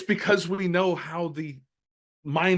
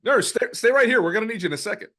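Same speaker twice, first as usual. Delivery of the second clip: commanding call; 7 semitones higher, 6 dB louder than usual. Pretend. Ordering the nurse in role.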